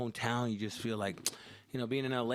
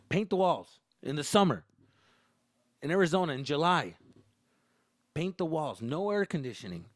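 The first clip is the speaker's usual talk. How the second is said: exasperated complaint; 4 semitones higher, 6 dB louder than usual. Real, not acted. Complaining about chore.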